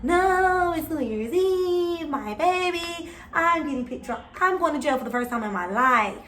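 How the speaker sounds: retold crying plea, rising to a high whine; sobbing to officers, scared of jail. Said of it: "So I'm crying like".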